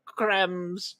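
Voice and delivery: high, slow demonic voice. Acted. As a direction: ham it up as a creepy demon host. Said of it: "I have to talk in a demonic voice".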